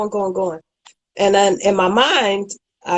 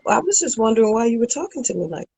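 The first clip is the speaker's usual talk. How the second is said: calm and even; 3 semitones higher, faster than usual. Shown as a demonstration. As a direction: ask it gently, without any anger. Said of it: "just like this".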